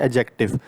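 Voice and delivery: एडजेक्टिव said with a silent D, as "ajective". Shown as a demonstration. Teacher showing learners how to say एडजेक्टिव, silent D. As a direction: leave the D unsounded in एडजेक्टिव, straight to the J. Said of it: "डी silent होता है".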